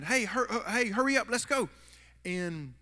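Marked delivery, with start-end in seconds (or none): 0.0-1.7 mock yell to round up the group; urgent shout to hurry; retold yell. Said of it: "I remember screaming".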